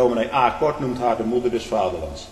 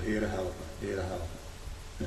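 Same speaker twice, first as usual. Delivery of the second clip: mock cry for help; 5 semitones lower, 14 dB quieter, much slower than usual. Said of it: "ik heb hardop tot de Heere geroepen".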